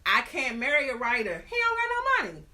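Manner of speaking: a hint of a haughty sister, squeaky on the last line; mock snooty sister turning down a writer; lightly voiced older sister. Older sister explaining why she won't marry a writer, lightly mocked. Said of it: "she was like".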